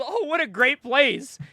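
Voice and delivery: slow, lilting mock-admiring girlfriend; lightly voiced girlfriend. Girlfriend walking into the bar, lightly imitated.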